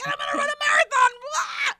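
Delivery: loud, high, fast mock boast; mock manic bragging; hammed-up husband. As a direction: rattle it off in an overexcited shout. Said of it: "You're like".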